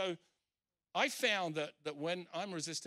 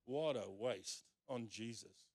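disapproving; 6 semitones lower, 5 dB quieter than usual. Retold or imitated. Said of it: "he's basically saying".

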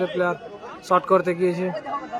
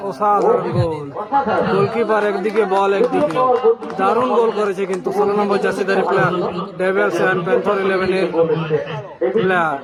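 goal call; 3 dB louder than usual. Real, not acted. Goal scored, live commentary.

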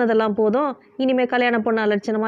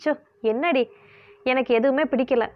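weary. Acted. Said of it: "சலித்த குரலில் சொன்ன".

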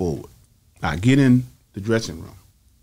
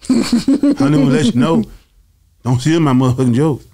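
imitating Bernie; 4 semitones higher, 6 dB louder than usual. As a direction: lightly play the famous comic warning him. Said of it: "That's how he was talking to me".

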